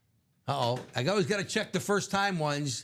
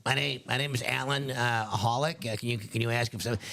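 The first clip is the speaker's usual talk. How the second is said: customer prank call; 4 semitones lower than usual. Retold or imitated. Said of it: "he likes to pull the old".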